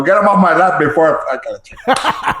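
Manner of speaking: lightly voiced grumpy cartoon character; Grouchy Smurf. Voice actor with kid on his lap, lightly grouchy Smurf. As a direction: grumble with a hint of cartoon grouch. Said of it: "I do the grouchy Smurf".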